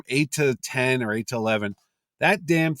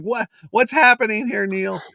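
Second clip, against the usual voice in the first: mock exasperation; 9 semitones higher, 4 dB louder than usual. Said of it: "I'm like".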